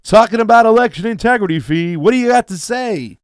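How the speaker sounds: playful radio host voice introducing the crew. Pretend. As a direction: pump it up like a morning-show DJ. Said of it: "I need to get my radio voice code going".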